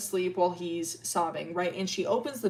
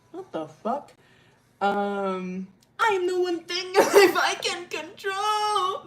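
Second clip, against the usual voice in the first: hammed-up dramatic line cracking into laughter; higher, louder, laughing through it; mock outburst laughing; 11 semitones higher, 5 dB louder, slower than usual. Arden voiced in a mock meltdown, laughing.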